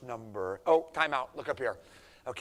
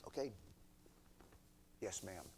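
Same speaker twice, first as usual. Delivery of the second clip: respectful; 3 semitones lower, 15 dB quieter than usual. Acted. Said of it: "with the right heart attitude say".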